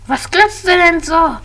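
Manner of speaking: monster voice. Acted. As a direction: threaten with a shrieking roar. Monster threatens villain.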